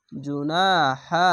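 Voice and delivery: "জুনা হা" with "না" held long; drawn-out vowel. Shown as a demonstration. Teacher showing alif lengthening, middle vowel drawn out. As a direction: stretch the a of "জুনা" one alif. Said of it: "যাবার পাশে খালি আলিফ এক আলিফ টেনে পড়বেন".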